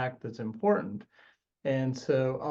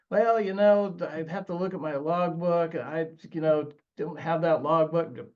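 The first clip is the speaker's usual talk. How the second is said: evasive witness; 3 semitones higher than usual. Retold or imitated. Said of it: "what we call a hostile witness".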